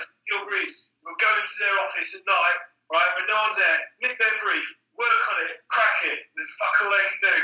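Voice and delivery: lightly put-on Cockney geezer hyping the lads; Cockney accent. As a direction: pitch the plan like a Cockney ringleader. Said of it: "giving him a Cockney accent".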